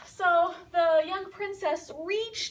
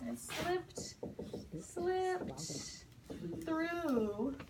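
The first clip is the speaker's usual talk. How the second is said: slow teaching repeat; 8 dB quieter, much slower than usual. Shown as a demonstration. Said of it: "It slipped through her fingers".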